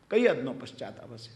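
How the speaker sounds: કઈ હદનો પશ્ચાતાપ હશે said low and soft, in wonder; deep, hushed wonder at how deep the repentance went; hushed awe. Shown as a demonstration. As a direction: let the question sink in, hushed. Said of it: "તમે વિચાર તો કરો".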